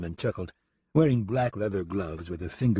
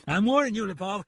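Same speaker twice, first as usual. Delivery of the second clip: high, angry warning; growled warning; 12 semitones higher, 3 dB louder than usual. Acted. Deputy threatened with another slap, angry growled warning. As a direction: come in loud, then drop on the name. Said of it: "he growled".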